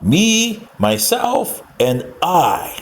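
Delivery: lightly voiced send-up of a boast; a hint of a Trump impression; imitating Trump. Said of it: "And that's the way he says it".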